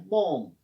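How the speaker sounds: बॉम with no L sound; silent L. Shown as a demonstration. Teacher models the word, L silent in बॉम. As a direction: say बॉम, dropping the L. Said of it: "एल इसमें silent रहता है".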